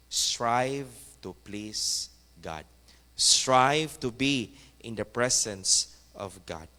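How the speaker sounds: drawn-out, earnest exhortation; slow preaching. Acted. Preacher urging the congregation, slow. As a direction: stretch each word for the church.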